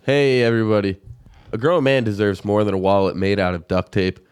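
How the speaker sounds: upbeat sponsor read. Acted.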